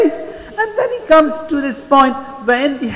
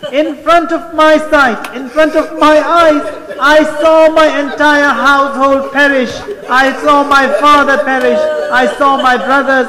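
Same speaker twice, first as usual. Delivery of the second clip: impassioned lament; 4 semitones higher, 4 dB louder than usual. Retold or imitated. Imam recounts family's deaths, grieving.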